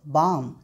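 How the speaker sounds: बाम with a long open "aa"; long "aa" sound. Shown as a demonstration. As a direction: draw out the vowel in बाम, silent l. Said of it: "हम इसको आ पढ़ रहे हैं". (बाम में लंबा "आ")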